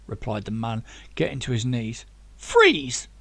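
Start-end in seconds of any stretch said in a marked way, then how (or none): 2.4-3.1 a loud, higher barked command; shouted. Acted. Zack ordering the man at gunpoint, loud shout. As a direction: stop him dead with one word. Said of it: "shouted Zack".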